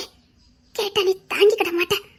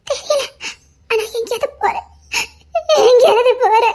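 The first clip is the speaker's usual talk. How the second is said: tearful; 3 semitones higher, 3 dB louder than usual. Acted. Distraught woman wanting to leave.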